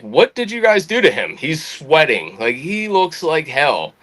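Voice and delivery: high-pitched, indignant imitation; retold pissed colonel. Colonel confronting the pranksters about their victim, retold with high-pitched indignation. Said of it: "he was pissed".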